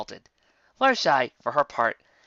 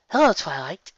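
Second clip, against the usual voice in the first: happy greeting; 5 semitones higher, 4 dB louder than usual. Acted. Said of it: "happily trotting over".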